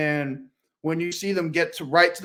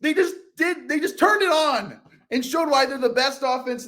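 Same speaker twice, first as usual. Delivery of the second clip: higher, louder, relishing the turnaround; big comeback storytelling energy; excited build-up; 7 semitones higher, 5 dB louder than usual. Real, not acted. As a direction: build the drama to a raised, amazed pitch. Excitedly retelling the Niners' comeback.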